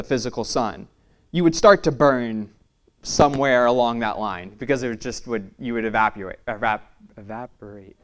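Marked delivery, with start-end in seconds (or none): 5.6-8.0 talking with a dry mouth. Real, not acted. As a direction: mouth dry, words sticking. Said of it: "my mouth is dry".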